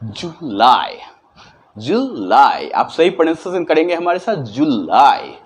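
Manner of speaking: "जुलाई" with the la held longer; "जुलाई" stretched on the la; long la in July. Shown as a demonstration. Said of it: "हमें आपका की मात्रा पे कुछ समय रुकना है".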